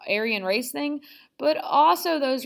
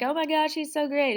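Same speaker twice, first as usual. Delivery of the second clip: lightly gushing, higher voice; mock adoring fan; 5 semitones higher than usual. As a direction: imitate a swooning crowd, slightly hammed-up. Acting adoring crowds.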